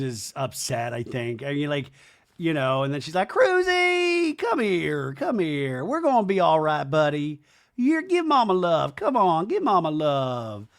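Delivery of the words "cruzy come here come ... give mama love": mock pet talk. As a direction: coo to the puppy like a doting owner. Baby talk to the dog.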